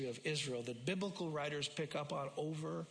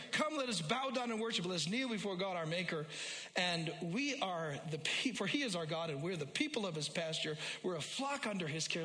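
preaching the psalm; 3 semitones higher than usual. Acted. Pastor preaching the psalm to his church, rising and fervent. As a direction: proclaim it to the congregation.

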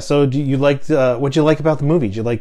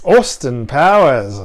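slow, lightly British echo; drawn-out, playfully British; imitated British accent; 4 dB louder, slower than usual. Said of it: "how you did your British accent".

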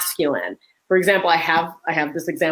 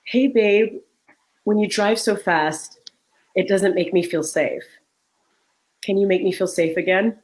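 softened request. Retold or imitated. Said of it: "I softened".

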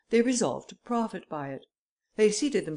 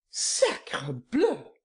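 cried out; 3 dB louder than usual. Acted. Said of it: "cried Devanne".

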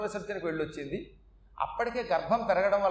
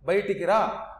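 angry rebuke; 3 dB louder than usual. Retold or imitated. Mother catches Indra killing babies.

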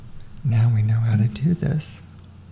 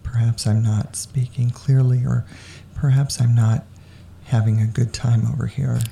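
sexy voice; 3 semitones lower than usual. Real, not acted. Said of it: "I'm speaking too much in my sexy voice".

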